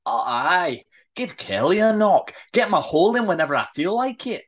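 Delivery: indignant telling-off, firmly laid down; worked-up, emphatic dressing-down; angry rant. Acted. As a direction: scold him with mock quotes, then lay down the law. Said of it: "her voice gets louder and louder".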